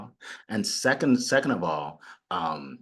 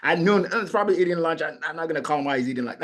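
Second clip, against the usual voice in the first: stalling excuses; 4 semitones higher, faster than usual. Retold or imitated. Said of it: "like ten o'clock".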